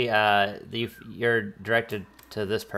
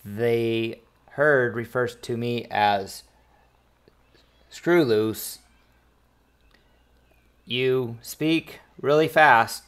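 lightly voiced slow robot; halting droid delivery, word by word; robotic translator voice; slower than usual. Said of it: "a robotic voice goes".

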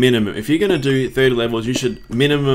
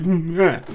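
high, strained little growl; mock-angry grunt; 7 semitones higher than usual. Player venting over bad luck, mock angry. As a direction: grunt in playful frustration. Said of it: "now I'm so angry".

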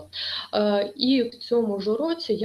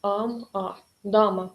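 syllable by syllable; slower than usual. Shown as a demonstration. Teacher shows students a memory trick, syllable by syllable. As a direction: separate mnemonic syllables, then the whole word. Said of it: "можна запам'ятати так".

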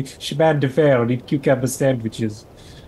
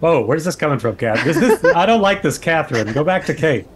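laughing protest; 3 semitones higher than usual. Real, not acted. Player reacts laughing to character.

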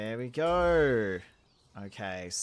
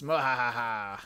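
evil laugh; 2 semitones lower, 4 dB louder, slower than usual. Retold or imitated. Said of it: "people are probably gonna go".

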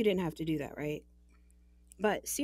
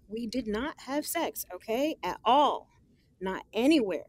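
louder, insistent denial; firm denial; 3 semitones higher, 4 dB louder than usual. Acted. Woman on the phone denying rumours to her friend, louder. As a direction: shut the teasing down hard.

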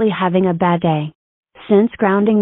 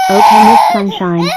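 calling out; 6 dB louder than usual. Acted. Calling out to Miss Sunshine.

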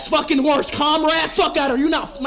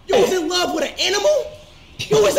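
fast, high, laughing through words; 5 semitones higher, much faster than usual. Real, not acted. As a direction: crack up mid-sentence. Mocking teammate, cracking up.

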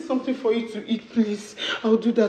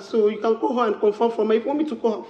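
loud pleading; 7 dB louder than usual. Acted. Wife begging accusing husband.

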